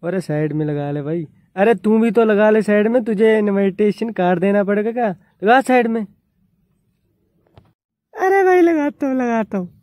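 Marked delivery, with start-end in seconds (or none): 1.6-6.1 louder, higher, irritated demand; annoyed shout. Real, not acted. Arguing with biker to pull over. 8.1-9.7 high, louder, fed-up answer; exasperated reply. Real, not acted. Other rider answers impatiently.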